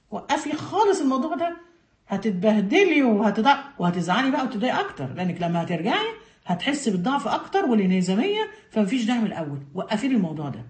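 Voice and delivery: a hint of a sly tempter, talking her out of it; discouraging coaxing voice, the devil's whisper; a touch of a scheming devil; lightly voiced devil, tempting. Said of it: "ده مين اللي بيقول لها كده؟ الشيطان".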